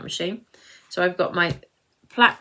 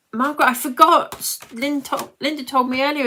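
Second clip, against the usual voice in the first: excited; 7 semitones higher, 6 dB louder than usual. Real, not acted. Suddenly remembers viewer's birthday.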